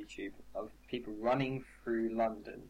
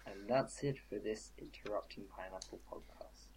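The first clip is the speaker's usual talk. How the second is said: whispered sign-off; 8 dB quieter than usual. Acted. Whispering the podcast sign-off to listeners. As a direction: breathe the closing line out.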